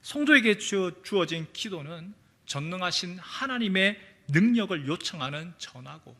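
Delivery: normal talking voice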